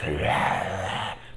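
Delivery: imitated creaky monster croak; wordless drawn-out creature rattle; Babadook voice noise. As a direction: mimic the monster's drawn-out sound. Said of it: "and that voice".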